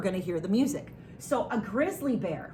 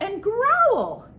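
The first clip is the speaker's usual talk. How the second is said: playful growl; 10 semitones higher, 5 dB louder than usual. Pretend. Tells children to growl as bear.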